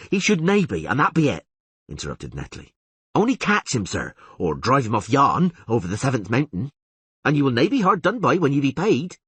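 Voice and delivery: high, loud, pushy rustic peasant voice; agitated old villager Netley. Acted.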